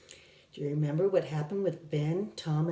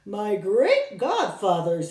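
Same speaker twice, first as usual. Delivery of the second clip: with feeling; 2 semitones higher, 6 dB louder, slower than usual. Acted. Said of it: "he said with feeling".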